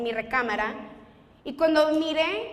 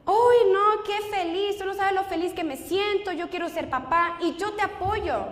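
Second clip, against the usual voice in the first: retold elation; 5 semitones higher than usual. Boyfriend reacting to hearing he'll be a dad, elated. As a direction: act out a boyfriend overjoyed at the news.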